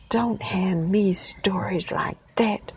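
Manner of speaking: slow sneering dismissal. Acted. American scoffing at great-granddad, slow sneer. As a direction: sneer down at the old man. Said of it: "said Mister Henning sneeringly".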